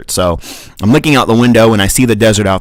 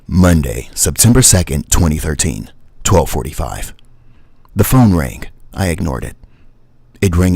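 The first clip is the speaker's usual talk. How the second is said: story narration retake; 4 semitones lower than usual. Shown as a demonstration. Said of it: "Let's try that one more time".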